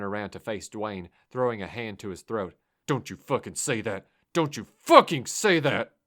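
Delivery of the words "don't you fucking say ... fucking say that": building to a high, loud furious shout. Acted. Driver grabbing his friend's throat, furious shout. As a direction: rage at him to shut up.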